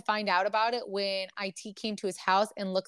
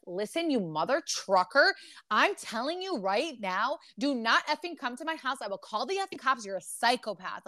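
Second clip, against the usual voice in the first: mock angry telling-off, emphatic and pitched up; going ham; 3 semitones higher than usual. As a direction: lay down the law, half in earnest. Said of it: "I would go ham".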